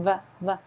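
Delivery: V, V said alone as a buzzing v sound; isolated V sound. Shown as a demonstration. Teacher isolating the v for students, buzzing. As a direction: buzz the v on its own. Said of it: "So this one's at the beginning".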